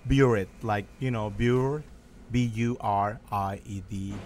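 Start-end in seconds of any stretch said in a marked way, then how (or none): 2.3-4.1 B U R I E D spelled letter by letter. Shown as a demonstration. Chef spells out the word for the hosts, letter by letter. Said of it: "Say it spelled again?".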